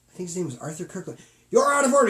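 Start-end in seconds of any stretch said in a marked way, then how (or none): 1.5-2.1 shouted line. Retold or imitated. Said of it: "He goes".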